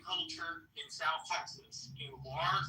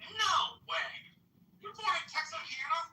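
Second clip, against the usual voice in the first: surprised disbelief; 9 semitones higher than usual. Real, not acted. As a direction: shout it like you can't believe it. Disbelief at birthplace reveal.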